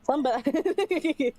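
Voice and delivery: playfully imitating a friend; teasing mimicry. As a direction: stretch it out in a silly teasing voice. Mockingly echoing friend's words.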